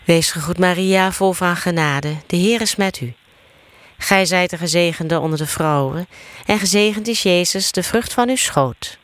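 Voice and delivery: steady chant-like Hail Mary; prayer recitation. Real, not acted. Leading the Hail Mary for others to answer, steady prayer recitation. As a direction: recite in an even, practised cadence.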